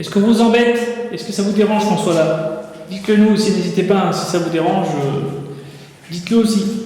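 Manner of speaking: calling out loudly.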